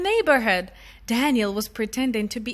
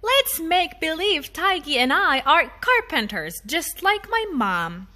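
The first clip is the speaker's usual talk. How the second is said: put-on child voice; 4 semitones higher than usual. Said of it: "Daniel said".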